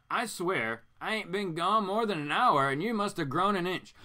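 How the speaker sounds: lightly voiced Southern father, fond; Southern accent. Father home to his kids, a hint of Southern accent. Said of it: "So is Mister Fiend Southern now?".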